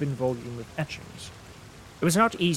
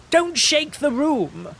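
much higher, slow, loud cry; shrill invalid's cry, louder; fretful cry; 13 semitones higher, 6 dB louder, slower than usual. Acted. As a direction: shriek as if the stamp hurt his nerves. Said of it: "cried Mister Fairley".

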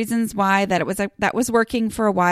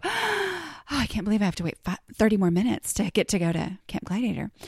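mock eager; 3 dB quieter than usual. Imagined eager early riser.

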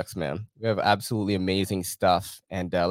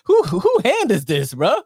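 laughing disbelief; 13 semitones higher, 7 dB louder than usual. Real, not acted. Laughing at own photo.

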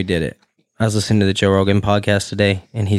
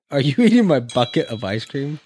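laughing disbelief; 5 semitones higher than usual. Real, not acted. Catching friend eating his ice cream.

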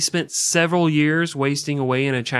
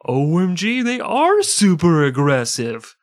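put-on valley girl gasp; 6 semitones higher, 7 dB louder, slower than usual. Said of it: "the foreign press was like".

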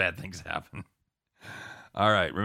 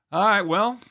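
excited; 12 semitones higher, 8 dB louder, slower than usual. Real, not acted. Opening the wrap-up segment.

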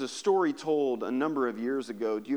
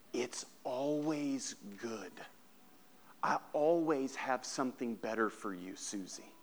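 tender hush; 6 dB quieter than usual. Acted. Father's tender closing words.

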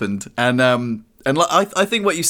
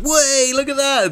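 put-on giddy excited child; 11 semitones higher, slower than usual. Imitating a giddy excited child showing something off, high squeal. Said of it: "excited child being like".

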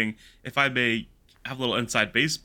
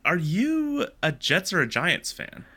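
mock interviewer; 7 semitones higher than usual. Playfully quizzing the character.

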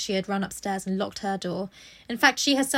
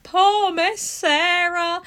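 high, slow, wailing mock cry; mock sobbing maid; 7 semitones higher, 7 dB louder, much slower than usual. Servant girl sobbing over Sarah's loss: hammed-up wail. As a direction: wail it like a weeping little maid. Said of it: "crying her eyes out".

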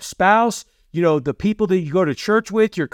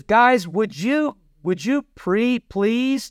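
a timid, pleading ask; mock polite request; 4 semitones higher, slower than usual. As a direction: sound like asking nicely, not commanding. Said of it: "No, it says, "Let everything".

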